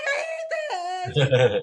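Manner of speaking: loud retold outburst of frustration; frustrated yell. Retelling a second fall in the restaurant, frustrated yell. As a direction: belt it out, acting fed up. Fell again, repeats the yelling.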